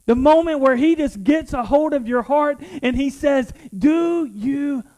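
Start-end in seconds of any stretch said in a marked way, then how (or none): 3.8-4.8 gentle voice of God. Retold or imitated. God's voice retold, slow.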